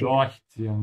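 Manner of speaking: "Durchziehen" with DURCH hit loud; stress on prefix. Shown as a demonstration. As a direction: punch the first syllable of "Durchziehen". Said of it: "remember to emphasize the prefix".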